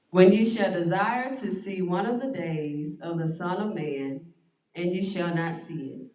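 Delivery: measured reading of the verse; scripture reading. Acted. Pastor reading scripture to his study group, measured. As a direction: read it out as holy text.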